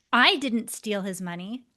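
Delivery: "I" ditekankan, naik di akhir; stress on I. Shown as a demonstration. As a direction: tekankan kata "I" dengan nada naik. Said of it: "you can see how the same words deliver a very different message".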